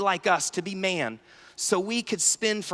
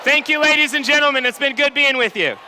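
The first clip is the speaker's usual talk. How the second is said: mock stage farewell; 5 semitones higher, 7 dB louder than usual. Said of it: "like, run off the stage".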